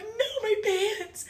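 high-pitched mock wail; retold scream. Screamer explaining to the alarmed group, mock wail. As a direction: wail it in comic despair. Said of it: "I'm screaming".

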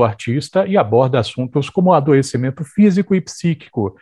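measured arts-news announcement; radio presenter read. Acted. Host announcing a new play to radio listeners, presenter read. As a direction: present the listing like a radio culture bulletin. Host reads the programme introduction.

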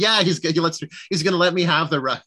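a carefree guy bragging about his win; high, chipper dude impression. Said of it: "He's like".

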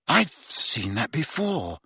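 soft, slow, wary realization; hushed recognition. A narrator's reading. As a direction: say it half to yourself. Harry stares at the cursed necklace.

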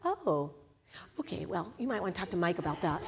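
awkward church member deflecting to Mike, hurried; awkward deflection. Retold or imitated. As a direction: back away from the conversation quickly. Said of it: "that awkward person that's like".

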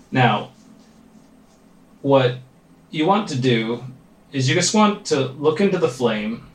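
calm, measured meditation guide with long pauses; guided meditation. Real, not acted. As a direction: lead them gently into focus, leaving space between phrases. Leads a meditation.

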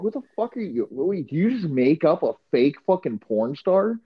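hammed-up incredulity; mock disbelief. Mock disbelief at fake star.

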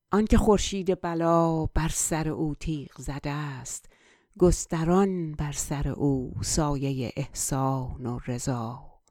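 flowing Persian verse recitation; poem recitation. Acted. Recites Persian verse before translating.

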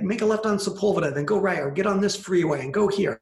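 mildly bossy mock directions; imitated order-barking. Rider directing an older Uber driver, lightly imitated order-barking. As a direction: reel off directions like a pushy passenger. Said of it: "barking orders at her".

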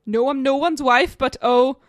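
a hint of a badly done English accent; attempted English accent. Player retrying a song lyric as clue, attempted English accent. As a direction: try the English accent, not quite getting it. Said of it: "how to do this accent".

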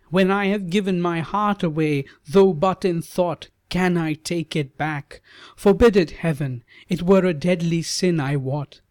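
put-on young bride refusing to take back her heart; earnest maiden. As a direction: defend your heart fervently as Savitri. Savitri voiced high.

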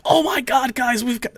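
high, panicky imitation of a freaked-out guy; mock panic. The panicking friend warns the group in a mock panic. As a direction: squeal it like the friend who panics. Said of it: "He's like".

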